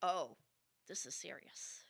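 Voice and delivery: whispered, alarmed aside; hushed manager. Retold or imitated. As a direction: breathe it like trouble just walked in. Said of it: "the manager going".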